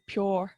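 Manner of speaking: "pure" in a put-on Dublin accent; "pure" with mock Dublin vowels; demonstrated Dublin pronunciation. Shown as a demonstration. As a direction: show how Dublin says "pure". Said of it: "I would say it's more like".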